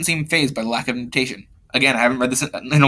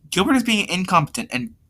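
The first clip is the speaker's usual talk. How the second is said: higher-pitched voice, mistakenly used; lighter, higher take on a complaint; pitched-up complaint in another character's voice; wrong character voice; 5 semitones higher than usual. Acted. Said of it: "sorry, wrong voice".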